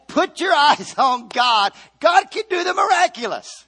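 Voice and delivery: preacher shouting faith to the congregation; preaching shout. Real, not acted. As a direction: shout it out as the sermon peaks. Preacher rising to climax.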